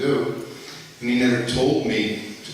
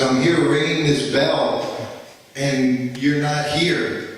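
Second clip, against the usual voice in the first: slow, louder scolding of a servant; retold angry yell; 3 semitones higher, 5 dB louder, slower than usual. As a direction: bark it out like a guru who was kept waiting. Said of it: "he's screaming at me".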